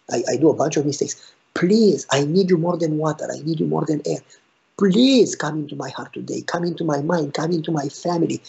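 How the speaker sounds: earnest prayer, rising on please; a hint of heartfelt begging; pleading prayer. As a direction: pray it like a humble plea. Voices a prayer to God.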